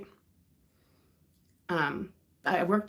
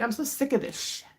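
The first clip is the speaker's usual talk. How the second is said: fed-up friend, pitched higher; mock exasperation in a raised pitch; retold anger; 7 semitones higher than usual. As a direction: imitate an angry friend venting. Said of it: "Yeah, she got so mad".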